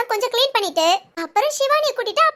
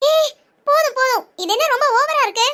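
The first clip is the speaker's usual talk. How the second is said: angry outburst; 3 semitones higher than usual. Acted. Angry woman cuts friend off.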